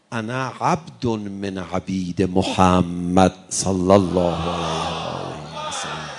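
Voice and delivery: slow, loud Arabic quotation; fervent declaiming. Acted. Preacher loudly recites Ali's words of devotion to the Prophet. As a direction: proclaim it slowly like a vow.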